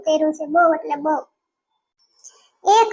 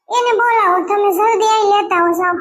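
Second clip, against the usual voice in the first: urgent demand; 4 semitones higher than usual. Acted.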